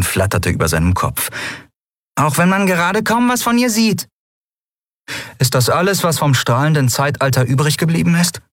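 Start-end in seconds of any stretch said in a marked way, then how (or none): 2.2-4.1 much higher, small fluttering voice, a bit dry; tiny creature. A narrator's reading. Nelen voiced in story. 5.4-8.4 bitter disappointment. A narrator's reading. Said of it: "Lien klang bitter enttäuscht".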